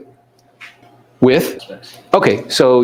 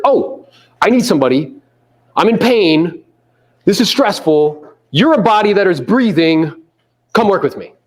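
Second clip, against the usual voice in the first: mildly hammed-up plea, stretched words; mock-desperate, drawn out and rising in pitch; desperate hirer; 6 semitones higher, slower than usual. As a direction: play someone grabbing any help available. Acting out a desperate hasty hirer.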